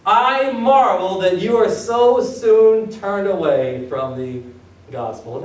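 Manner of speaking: slow, each word weighted; drawn out stern reading; slow emphatic reading. Shown as a demonstration. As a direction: read it like a rebuke. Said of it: "First sentence".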